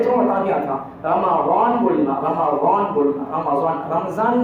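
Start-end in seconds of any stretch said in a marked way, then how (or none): 1.0-3.9 رمضان slow and low, with a heavy, rounded w-like ضاد; correct Arabic ضاد. Shown as a demonstration. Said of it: "تلفظ اچھا سیکھنا". 3.9-4.4 رمضان with a buzzing Z for the ض; Z sound in رمضان. Shown as a demonstration. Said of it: "رمضان نہیں".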